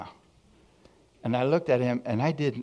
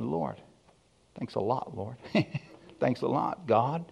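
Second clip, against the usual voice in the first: soft, dry mock gratitude; sarcastic thanks; 6 dB quieter than usual. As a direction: thank God under a cloud, quietly. Sarcastic thanks to God retold.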